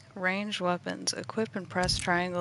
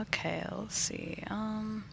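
whispering; 3 semitones higher, 6 dB quieter, slower than usual. Real, not acted. Muttering while choosing skill.

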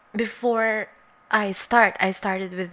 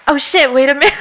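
laughing shock; 4 semitones higher, 13 dB louder, faster than usual. Real, not acted. Startled by her own mistake.

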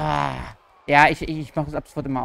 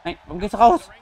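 frustrated outcry; 4 semitones higher, 8 dB louder than usual. Real, not acted. Wrestler leaves the ring mid-match.

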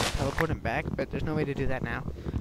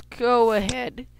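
voice crack; 8 semitones higher, 7 dB louder, much slower than usual. Real, not acted. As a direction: voice cracking mid-phrase. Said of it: "I had a voice crack".

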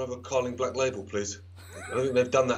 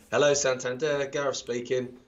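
bank call greeting. Retold or imitated. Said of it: "that's how they answer the phone".

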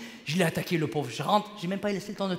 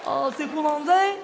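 higher, louder hammed-up Chinese accent waiter; mock Chinese waiter accent; 6 semitones higher, 4 dB louder, slower than usual. Comic imitating a Chinese waiter greeting him, mock Chinese accent. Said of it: "le serveur".

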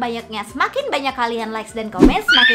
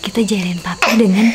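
whisper; 5 semitones lower than usual. Real, not acted. Whispering near sleeping Papi.

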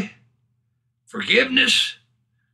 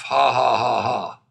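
low, spoken ha-ha laugh; deliberate laugh; 5 semitones lower than usual. Shown as a demonstration. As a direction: demonstrate laughing with measured, descending ha's.

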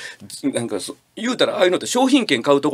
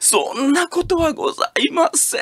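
clerk; 10 semitones higher than usual. Retold or imitated. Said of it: "カード作りませんか".

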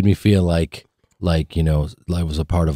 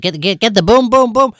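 much higher, excited put-on chant of boom; imitating a rapper; 12 semitones higher, 3 dB louder than usual. Actor imitating a rapper directing the camera, high and hyped. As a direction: hype it up like a rapper pushing the shot. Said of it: "He's like".

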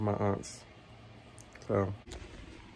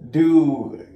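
quoting a post; 3 semitones higher, 5 dB louder than usual. Retold or imitated. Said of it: "It was like".

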